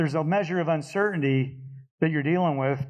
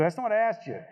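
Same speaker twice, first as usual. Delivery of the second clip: sharp retort; 6 semitones higher, faster than usual. Retold or imitated. Snapping back at the JTAC.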